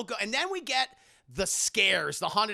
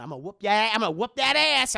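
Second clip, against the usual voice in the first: louder, rising mock fury; heated threat; 3 semitones higher, 7 dB louder, faster than usual. Madea threatening her brother Joe, loud rising threat. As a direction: build into a hammed-up threat.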